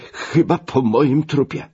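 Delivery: high, drawn-out protest; alarmed cry. Acted. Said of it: "zawołał, zrywając się z łóżka". (wysoki, przeciągły okrzyk sprzeciwu)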